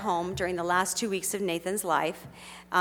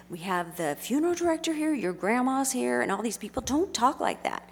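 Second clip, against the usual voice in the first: exasperated plea; 4 semitones higher than usual. Retold or imitated. Father pleading with son, retold.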